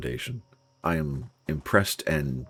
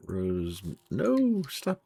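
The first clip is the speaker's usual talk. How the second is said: alarmed protest; 3 semitones higher, much slower than usual. Real, not acted. Character misbehaves in game.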